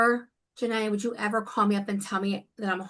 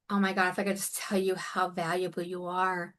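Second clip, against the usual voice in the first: near happy tears; 4 dB quieter than usual. Real, not acted. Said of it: "wanting to cry, happy tears".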